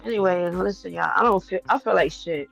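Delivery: tight-chested and short of breath; soft, strained, can't quite breathe; wheezy voice. Real, not acted. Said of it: "My chest feeling tight".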